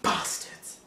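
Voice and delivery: a bitter whispered curse, barely voiced; whispered insult. Office workers whispering a curse as he leaves, hushed whisper. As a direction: hiss it under your breath, slow. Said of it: "you can hear whispers of".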